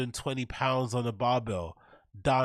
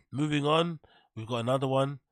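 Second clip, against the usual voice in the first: ordinary talk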